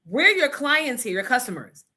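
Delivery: retold angry rant. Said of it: "I said".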